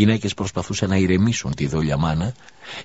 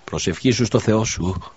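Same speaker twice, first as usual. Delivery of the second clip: a gently raised, imploring plea; beseeching; 3 semitones higher than usual. Acted. Widow begs the prophet to pray, imploring. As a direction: ask it as if everything depends on his prayer. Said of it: "οικέτευσε πάλι η γυναίκα".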